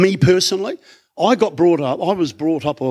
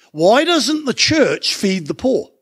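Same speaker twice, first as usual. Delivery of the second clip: mock complaint; 6 semitones higher, slower than usual. Mocking what people say.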